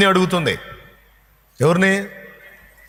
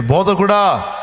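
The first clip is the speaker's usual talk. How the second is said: joyful cry; 5 semitones higher, much slower than usual. Acted. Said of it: "అని కేక వేసింది".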